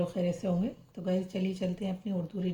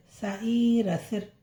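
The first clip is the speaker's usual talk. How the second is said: slow, separated syllables joined into जिन; teacher sounding out जा ई न, then जिन; slow syllable blending; 3 semitones higher, 3 dB louder, slower than usual. Shown as a demonstration. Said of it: "सा, सीन रे जेर सिर". (धीरे-धीरे अक्षर जोड़कर पढ़ाना)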